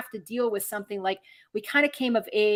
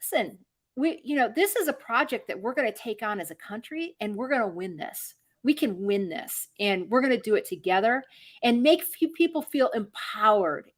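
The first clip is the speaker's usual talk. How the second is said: rallying paraphrase. Retold or imitated. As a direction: speak like a calm leader rallying the country. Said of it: "It was like".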